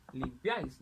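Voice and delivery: limpiáis said lim-PIÁIS; stress on last syllable. Shown as a demonstration. Teacher showing palabras agudas, limpiáis stressed on PIÁIS. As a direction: lean on the end of limpiáis. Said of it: "en la última sílaba".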